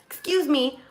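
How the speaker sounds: high-pitched retold double take; taken aback, voice lifted; shocked disbelief. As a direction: act out being taken aback. Shocked reply to wife's accusation.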